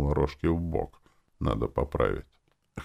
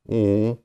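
short, higher grumbled "oo"; grumbling grunt; 6 semitones higher, 4 dB louder than usual. A narrator's reading. Hero getting up after being sworn at, grumbled grunt. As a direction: grunt it grumpily. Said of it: "проворчал я".

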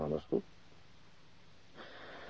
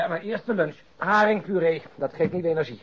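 higher and louder, gleeful; eager about lunch; 8 semitones higher, 9 dB louder than usual. Acted. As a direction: sell the lunch like a treat.

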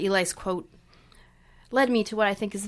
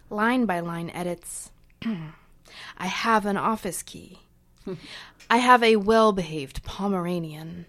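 measured, rhythmic poem recital; poetry reading. Acted. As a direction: read it like a spoken-word poem. Reads own poem aloud.

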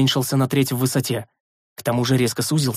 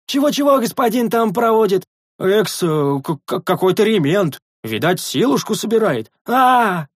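much higher, louder puzzled yokel voice; simple sentry; 7 semitones higher, 4 dB louder than usual. A narrator's reading. The sentry puzzles over the master's word, stammering. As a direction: stumble over the strange word.

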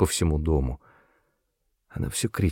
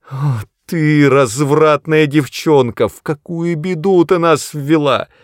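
hysterical scolding; 8 semitones higher, 5 dB louder than usual. A narrator's reading. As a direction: rage at the daughter. Mother berates daughter in panic.

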